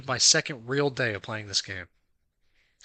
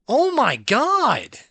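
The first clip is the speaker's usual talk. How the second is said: exasperated groan; 9 semitones higher, 6 dB louder, much slower than usual. Real, not acted. Raging at game.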